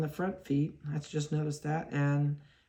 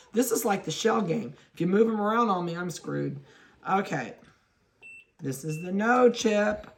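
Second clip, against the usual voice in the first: ordinary talk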